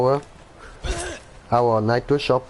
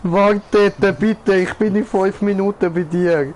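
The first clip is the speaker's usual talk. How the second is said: raised voice, calling after it; 4 semitones higher than usual. Real, not acted. Player calling after a fleeing animal, raised voice. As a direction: call out to make it wait.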